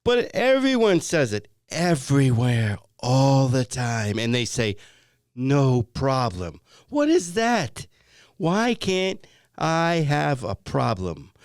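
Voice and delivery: exasperated and emphatic; worked up. Acted. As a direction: keep ranting, drawing out the key words. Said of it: "you're getting a little worked up".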